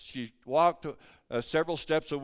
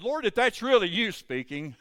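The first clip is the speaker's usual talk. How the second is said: higher-pitched mock challenge to the Lord; retold plea to God; 8 semitones higher, 6 dB louder than usual. Preacher retells his silent prayer to the Lord, high-pitched plea.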